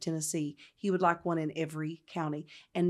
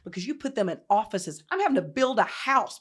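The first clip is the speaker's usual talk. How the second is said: retold going off; 5 dB louder than usual. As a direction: let the mock tirade build. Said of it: "And I went off".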